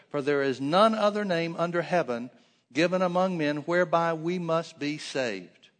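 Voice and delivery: emphatic declaration built around "name"; stress on NAME. A narrator's reading. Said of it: "Notice the emphasis that they place on the name".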